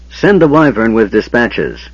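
slow, firm order; commanding. Acted. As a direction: give the command deliberately. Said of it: "he ordered Pyros".

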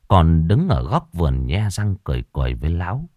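ordinary delivery, nothing marked

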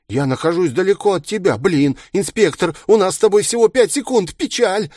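high, fast villain patter; mock-rueful villain. A narrator's reading. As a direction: feign regret while rushing cheerfully.

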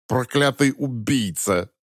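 put-on slurred, drunken, slow; drunk slurring. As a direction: slur it like a drunk. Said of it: "заплетающимся языком проговорил".

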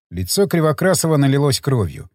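ordinary delivery

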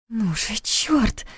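soft, very slow pleading; desperate whisper. A narrator's reading. Stuck in the tunnel, slow desperate whisper. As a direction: breathe it out through fear. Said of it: "прошептала она".

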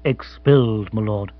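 mildly sorrowful butler; understated formal gloom; sighing regret. Acted. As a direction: break the bad news reluctantly. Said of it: "Jeeves sighed again".

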